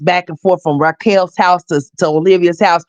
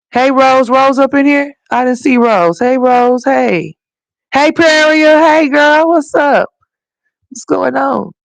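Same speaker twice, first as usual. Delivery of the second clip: excited greeting; 8 semitones higher, 3 dB louder, slower than usual. Real, not acted. Greeting viewers in chat.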